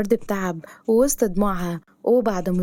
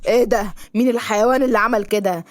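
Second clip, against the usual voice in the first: furious outburst. Acted. Driver shouting after a brick hits his car. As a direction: bark at whoever broke the glass.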